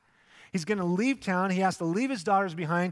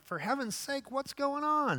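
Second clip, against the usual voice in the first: groggy annoyed son-in-law; 10 semitones higher than usual. Retold or imitated. Son-in-law woken by Lot's banging, annoyed and high.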